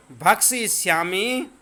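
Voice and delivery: भक्षिष्यामि said slowly and clearly; teacher drilling भक्षिष्यामि at a slow pace; slow pronunciation. Shown as a demonstration. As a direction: sound out भक्षिष्यामि for pupils. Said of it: "केवल उच्चारण करना है".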